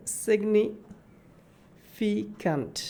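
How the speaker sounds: সিগনিফিক্যান্ট drawn out slowly, beat by beat; slow demo of সিগনিফিক্যান্ট; slow syllable by syllable. Shown as a demonstration. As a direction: stretch সিগনিফিক্যান্ট so each syllable is clear. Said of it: "একই রকমভাবে".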